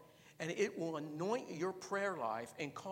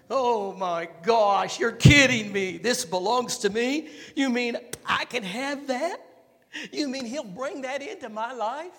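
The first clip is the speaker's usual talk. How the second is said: high, loud, building to a shout; overjoyed eager believer; 9 semitones higher, 18 dB louder than usual. Retold or imitated. Preacher acting a believer begging God for the gift, shouting for joy. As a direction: burst with wanting it, climbing to a yell.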